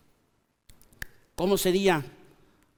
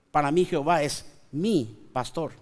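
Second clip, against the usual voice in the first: lower, softer, "mí" rising and leaned on; "para mí" given personal weight; stress on mí; 6 semitones lower, 3 dB quieter than usual. Shown as a demonstration. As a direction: confess it quietly, hitting "mí". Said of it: "eso cambia totalmente la historia".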